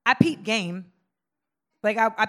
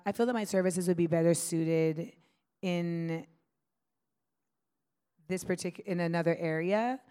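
professional tone. Shown as a demonstration. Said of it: "in the professional environment".

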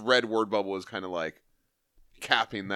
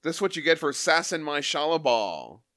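higher, punched-up comic-book brawler; acted tough-guy Thing; 4 semitones higher, 3 dB louder than usual. Host voices the Thing threatening the Surfer, mock bluster. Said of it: "so the thing's like".

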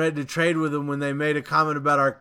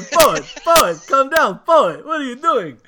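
higher, louder mock Nordic-Russian accent; terrible Bjorn voice; 10 semitones higher, 8 dB louder than usual. Imitating barbarian Bjorn calling the poet, loud hammed Nordic accent. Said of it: "That's my best Bjorn".

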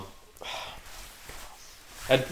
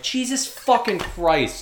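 exasperated clerk; 10 semitones higher, much slower than usual. Retold or imitated. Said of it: "they're like".

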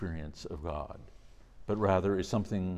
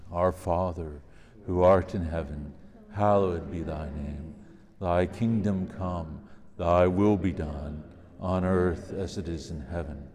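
prayer; 3 dB louder than usual. Real, not acted. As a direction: lead the prayer aloud. Leads the Our Father.

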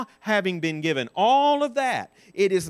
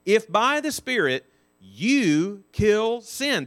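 slow emphatic; 5 semitones higher, 4 dB louder, slower than usual. Shown as a demonstration. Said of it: "That's what he's saying".

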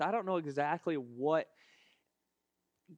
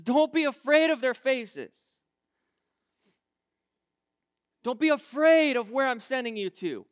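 emphatic preaching; 6 semitones higher, 7 dB louder than usual. Acted. Preaches scripture.

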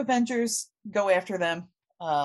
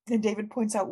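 ordinary delivery

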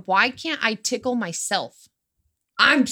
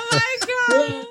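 high, breathless laughing; can barely get the words out for laughing; 14 semitones higher, 3 dB louder than usual. Real, not acted. Still cracking up.

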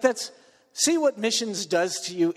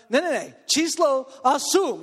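higher-pitched exasperated insistence; retold rising frustration, insist on it; getting mad; 6 semitones higher than usual. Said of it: "I'm getting mad".

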